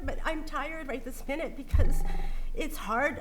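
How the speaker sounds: fighting back tears while talking; crying. Real, not acted. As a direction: voice breaking with tears. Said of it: "I'm sorry I'm crying".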